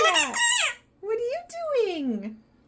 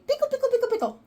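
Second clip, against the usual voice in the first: sing-song demo; 3 semitones higher, much faster than usual. Shown as a demonstration.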